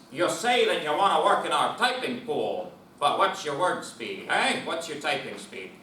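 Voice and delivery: put-on old-timey gruff boss voice; 1950s hiring manager. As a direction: play a fifties office boss. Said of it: "let me do the nineteen fifties".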